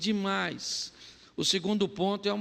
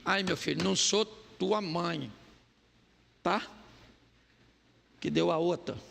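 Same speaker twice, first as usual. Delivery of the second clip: gentle mother; 2 semitones lower than usual. Retold or imitated. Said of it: "Ela falou pro Isaquim".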